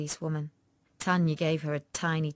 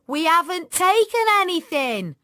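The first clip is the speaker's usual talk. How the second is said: high, loud insistent protest; pitched-up girl's outburst; indignant denial; 11 semitones higher, 9 dB louder than usual. Acted. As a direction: insist loudly that you're innocent. Tanya repeats her loud denial.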